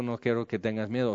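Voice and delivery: tender like a father to his son; fatherly voice. Retold or imitated. A father telling his son not to fear, soft and tender. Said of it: "Como un padre diciendo a su hijo".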